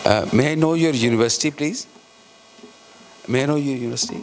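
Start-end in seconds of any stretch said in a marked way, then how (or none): 0.0-1.9 louder question. Real, not acted. Chair calling out to the presenter to ask her university, louder and quicker.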